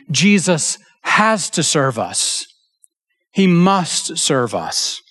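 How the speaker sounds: slow, deliberate, weight on has and must; slow right down and land the point; preacher stressing has; emphatic key point. Real, not acted. Sermon key point slowed.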